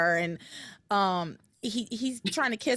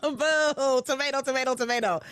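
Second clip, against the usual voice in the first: mock booing, pitched up; playful heckling; 3 semitones higher than usual. Viewer jeering the groom's speech, playful heckling. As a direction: heckle like a crowd pelting a bad act.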